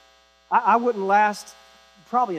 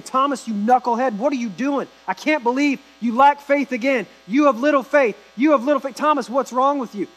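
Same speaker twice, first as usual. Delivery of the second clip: mock scolding; 3 semitones higher, 3 dB louder than usual. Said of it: "He doesn't come in and say that".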